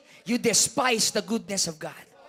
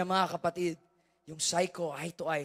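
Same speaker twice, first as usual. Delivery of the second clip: ordinary talk, nothing marked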